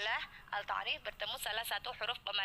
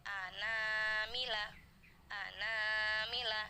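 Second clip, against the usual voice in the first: slow recitation, the long vowel held; tajwid demo; much slower than usual. Shown as a demonstration. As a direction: draw out anamila for two counts. (dibaca panjang dua harakat)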